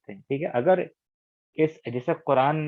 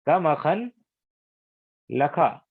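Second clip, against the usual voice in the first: slow Arabic phrase; much slower than usual. Shown as a demonstration. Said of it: "यहाँ पर भी आप देखिए".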